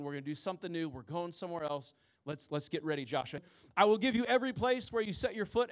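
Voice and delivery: reading the Lord's charge aloud to the congregation; scripture reading. Acted. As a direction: read it as a solemn scripture passage. Preacher reading God's words to Joshua.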